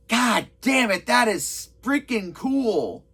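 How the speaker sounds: slow, drawn-out amazement; retold awe, stretched at the end; impressed. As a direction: savour each word, genuinely impressed.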